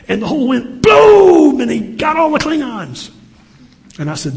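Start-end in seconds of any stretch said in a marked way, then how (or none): 0.1-3.1 high, loud shout of boom; dramatic explosion. Acted. Father telling son the Enterprise story, loud boom. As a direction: blow it up big for the kid.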